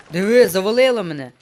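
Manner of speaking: loud, startled outburst; startled exclamation. Real, not acted. Player finds himself buried in, startled. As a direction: exclaim at being blocked in.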